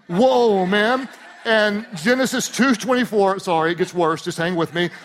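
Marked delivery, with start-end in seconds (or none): 0.1-1.1 cheesy awed whoa. Shown as a demonstration. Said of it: "Cheesy joke".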